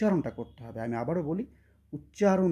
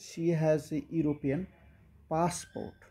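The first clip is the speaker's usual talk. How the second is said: slow, deliberate dictation pace; teacher reading the example sentence slowly; slow model sentence; much slower than usual. Shown as a demonstration. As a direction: read it out slowly for the class. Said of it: "teacher models the example sentence".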